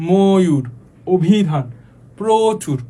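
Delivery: ময়ূর, অভিধান, প্রচুর each stretched on the opening ও sound; drawn-out first vowel. Shown as a demonstration. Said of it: "শুরুতে টানটা আসবে".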